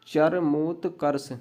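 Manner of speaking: चरमोत्कर्ष in slow, separated parts; careful slow repeat; slow dictation. Shown as a demonstration. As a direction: break the word up for a writer. Dictation, word repeated slowly.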